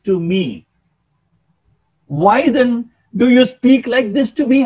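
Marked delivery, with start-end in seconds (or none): 2.1-4.6 higher-pitched, acted humble protest. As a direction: protest the honour in Saul's place, pitched up. Repeats verse, acting out Saul's protest.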